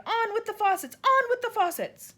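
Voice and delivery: high, loud, strange far-off voice; the cloud man bellows from on high; booming cloud man shout. A narrator's reading. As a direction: roar it down from the sky. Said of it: "it shouted".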